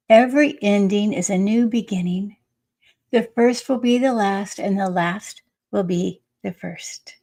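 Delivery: measured oracle-card reading; deliberate inspirational read-aloud. Acted. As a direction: read it out as a message, with weighty pauses.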